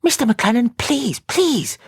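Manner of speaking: high, pleading and urgent; distressed plea. A narrator's reading. Sister begs the detective in distress, high and pleading. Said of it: "In her distress".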